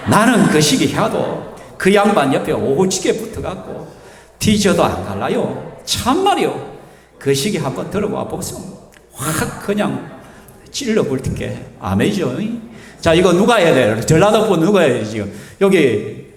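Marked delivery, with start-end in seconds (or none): 0.1-11.7 a light Jeolla dialect psalm reading. Shown as a demonstration. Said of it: "전라도 버전도 가져와야죠". (살짝 전라도 사투리로 읽기)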